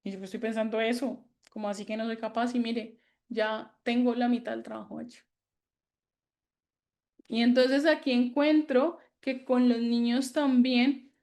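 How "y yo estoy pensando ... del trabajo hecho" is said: softer, quick offhand brushing aside; calmly brushing off a negative thought; dismissive self-talk. Retold or imitated. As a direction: shrug off the thought lightly. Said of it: "si usted le dice".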